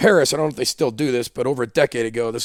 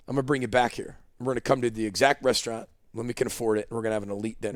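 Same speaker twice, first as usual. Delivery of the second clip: softer, sincere promise; promising his girlfriend softly; 6 dB quieter, faster than usual. Retold or imitated. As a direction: quietly vow to come back. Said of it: "I said".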